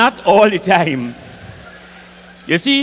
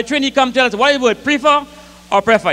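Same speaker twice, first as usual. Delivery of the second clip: pastor asking; 5 semitones higher than usual. Retold or imitated. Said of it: "A Trinidadian pastor say".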